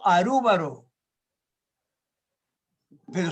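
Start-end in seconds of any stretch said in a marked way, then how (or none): 0.0-0.9 put-on Arúbaro in a Japanese-style accent, the L made an R; lightly Japanese Arúbaro; Japanese pronunciation. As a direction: say Arúbaro the way a Japanese speaker would. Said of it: "no existe el sonido L".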